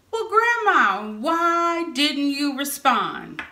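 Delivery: mock exasperated. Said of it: "she'll say".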